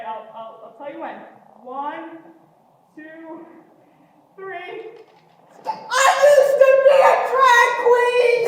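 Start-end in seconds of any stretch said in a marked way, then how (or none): 5.7-8.4 high, loud blurted confession with laughter; panicked confession. Acted. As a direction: blurt it out in terror. Panicked confession while driving.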